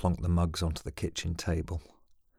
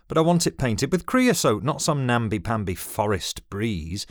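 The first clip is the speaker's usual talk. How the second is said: put-on much higher and louder, stubborn old father; insist, scornful at the end; indignant demand; 4 semitones higher, 6 dB louder than usual. A narrator's reading. Dad insisting on creosote.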